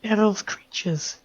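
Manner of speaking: high, fearful accusing cry; a terrified mother accusing the strangers. Acted.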